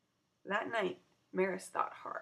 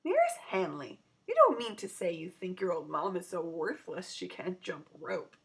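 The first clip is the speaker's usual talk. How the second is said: mock hurt; 4 dB louder than usual. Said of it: "in mock hurt".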